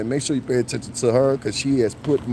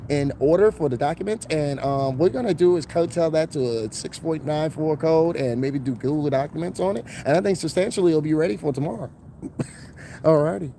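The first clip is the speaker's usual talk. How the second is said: fast, somewhat higher corporate speech; overdone office voice; 5 semitones higher than usual. Retold or imitated. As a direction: lightly ham up a corporate update. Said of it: "some of y'all just overdo it".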